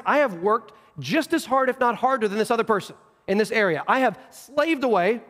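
acted indignation, leaning on each grievance; aggrieved older brother. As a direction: imitate someone resentful of unrewarded work. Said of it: "Sounds like the older brother".

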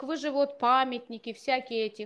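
ordinary delivery

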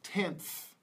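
"tenth" said alone with an audible final th; final th demo. Shown as a demonstration. Teacher models next word for learners, "tenth" with final th. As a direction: model "tenth", letting the last th hiss out. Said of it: "see it at the end of the word".

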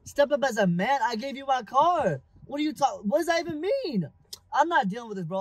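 loud, rising outrage; indignant anger. Acted. Boyfriend defending himself after giving her his car, indignant. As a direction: argue back loudly, pitch climbing. Boyfriend quarrels back on phone.

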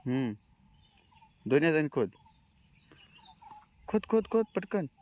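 high, quick urging of a dog; excited egging on. Real, not acted.

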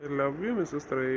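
slow, soft I love you; hushed tender reply. Real, not acted. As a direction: say it gently to your wife. Husband answers wife's I love you.

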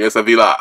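"villa" as "vee-LAH"; affected "villa", weight on the last syllable; pretentious pronunciation. Acted. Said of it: "pretentious asshole that's gonna say".

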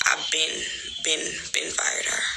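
slow hushed whisper. Real, not acted. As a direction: let it slip quietly. Confiding aside.

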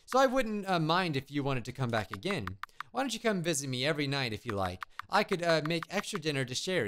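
a hint of a lonely witch; apologetic witch, mildly emotional, sinking at the end; lightly voiced wistful witch. Lonely witch confides in the boy, lightly wistful.

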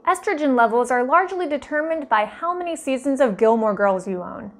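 ordinary talk, nothing marked

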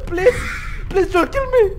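loud, high mock begging; mock plea. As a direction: beg the doll, hammed up. Begging game monster.

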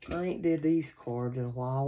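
ordinary talk, nothing marked

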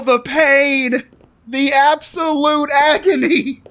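hammed-up slow moaning about pain; mock agony. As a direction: groan it out like dying. Mock pain after scare.

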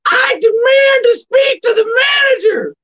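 high shouting female Karen impression. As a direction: shout it up high like an outraged Karen demanding service. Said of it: "That's a pretty good Karen voice".

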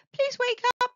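high pleading cry; begging. Acted. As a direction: plead with her, close to tears. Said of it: "he begged".

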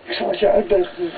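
high, stammered attempt to explain; stuttering. A narrator's reading. Johan, grabbed by the lapels, stammers to explain. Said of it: "stottert Johan".

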